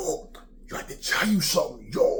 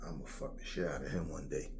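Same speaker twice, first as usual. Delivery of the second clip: much lower, softer menacing murmur; sinister inner thought; 9 semitones lower, 13 dB quieter than usual. Retold or imitated. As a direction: say it low like a dark secret. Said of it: "you looking at this kid going".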